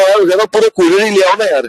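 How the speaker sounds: mock-exasperated teasing of a student; lightly wry complaint, meant as humour; joking exasperation. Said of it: "sir ने humour में ये बात की थी".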